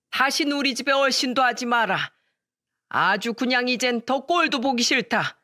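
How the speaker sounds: put-on an old man fed up, ordering her out; stern fury at the rude daughter-in-law; angry father-in-law. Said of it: "동서에게 화를 잔뜩 내셨고요".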